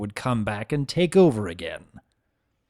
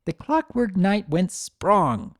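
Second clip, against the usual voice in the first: reciting; 7 semitones higher, slower than usual. Acted. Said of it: "Sunny recited".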